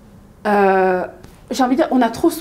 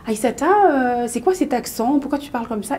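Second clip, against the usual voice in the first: lightly mimicked teasing question, slightly raised; mocking; 3 semitones higher than usual. Schoolgirls question her accent, lightly mocking. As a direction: imitate kids poking fun at a newcomer. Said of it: "ils se moquaient beaucoup de moi".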